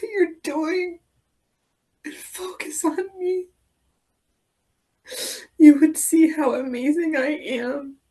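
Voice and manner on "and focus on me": soft breathy whisper. Acted. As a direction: breathe it out quietly. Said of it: "the slower you go".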